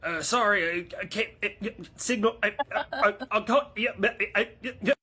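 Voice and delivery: high, loud, broken-up stutter; faked bad signal. Caller dodging a demand to show the spacecraft, faking dropouts. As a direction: chop the words like a failing connection.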